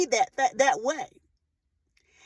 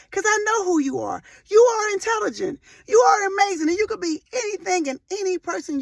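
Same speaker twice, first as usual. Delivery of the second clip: tearful affirmation; 5 semitones higher than usual. Real, not acted. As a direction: declare it to her through tears. Mother affirming her daughter, tearful.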